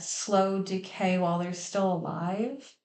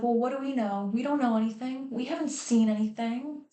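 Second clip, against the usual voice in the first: higher-pitched mock innocence, imitating; feigned ignorance; 4 semitones higher, faster than usual. Grandparents covering for the father, mock innocent denial. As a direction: play dumb in an imitated protesting voice. Grandparents deny knowing anything, voiced mockingly.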